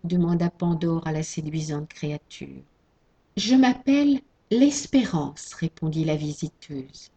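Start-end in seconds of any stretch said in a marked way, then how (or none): 3.4-5.5 gentle fairy voice. Acted. Hope speaks.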